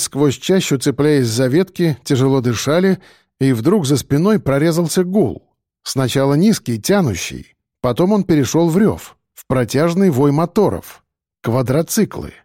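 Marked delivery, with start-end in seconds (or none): none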